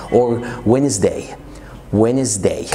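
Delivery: Wednesday said as "Wenz-day"; silent d. Shown as a demonstration. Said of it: "الدي بعد الان". (Wednesday من غير الـ d)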